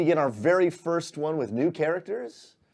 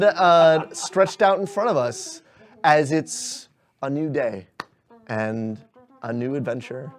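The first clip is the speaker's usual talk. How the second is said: closing narration; 3 semitones lower than usual. Acted. Game master narrates the train returning to the city. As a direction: paint the final scene warmly.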